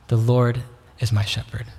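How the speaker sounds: "Lord" set apart by a pause; stress on Lord. Shown as a demonstration. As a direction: lean on "Lord", then pause. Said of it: "emphasize one word at a time".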